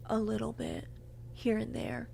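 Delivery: small mock-sheepish voice; sheepish admission. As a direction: admit it quietly, reluctantly.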